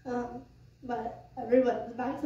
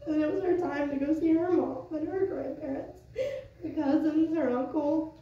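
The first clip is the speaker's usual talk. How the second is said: faltering tender eulogy; 3 semitones higher than usual. Real, not acted. Tears during the eulogy.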